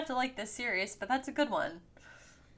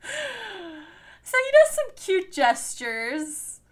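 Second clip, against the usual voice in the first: laughing; 9 semitones higher, 5 dB louder, much slower than usual. Real, not acted. Laughing about a cute gesture.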